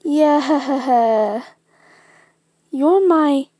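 loud, laughing yeah; laughing confirmation. Acted. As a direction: laugh through the happy reveal. Character confirms family tie, laughing.

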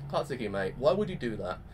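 low, let-down appeal to a mate; dismayed reproach. Retold or imitated. Viewer reproaching Katsuki for belittling Izuku, dismayed. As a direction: reproach them in a low, disappointed voice.

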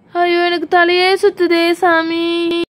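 slow, drawn-out woozy wail; acted dizzy lament; dizzy moaning. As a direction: moan slowly as if your head spins. Complains of spinning head.

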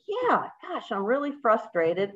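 voicing a frustrated parent; mock frustrated reply. Shown as a demonstration. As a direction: act out a frustrated answer. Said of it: "And so I could go".

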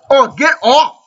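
high frantic get off; panicked yell. Real, not acted. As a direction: shout at them to back off. Mobs chasing him in game.

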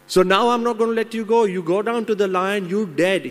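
high, loud and fast threat; furious threat. Acted. Monkey holding man over the lion, fast furious threat. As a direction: snap it out like a final verdict.

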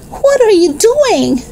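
staring at the half-shorn dog; astonished. A narrator's reading. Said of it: "she cried".

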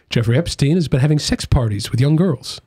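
American newsreader accent, evenly delivered; put-on American accent. Shown as a demonstration. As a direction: read it like American TV news. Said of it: "That's my American accent".

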